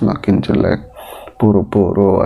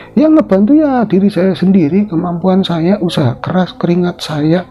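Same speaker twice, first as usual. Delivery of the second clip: Ratmi boasting; 9 semitones higher than usual. Acted. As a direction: throw it back, full of herself.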